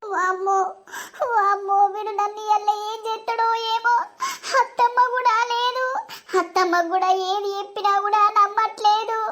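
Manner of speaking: mildly tearful fretting; fearful sobbing. Acted. Wife alone, dreading what husband will do, fearful sobbing. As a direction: fret to yourself between sobs. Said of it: "నాకు భయం అవుతుంది".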